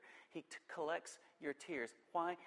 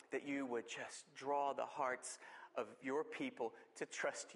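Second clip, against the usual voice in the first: prayer; 2 semitones higher than usual. Acted. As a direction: pray gently over the people. Pastor prays over congregation.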